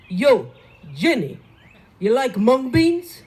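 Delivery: loud New York style hail from a car; Lenny's call. Retold or imitated. Neighbour hollering from his car window. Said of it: "he says to us".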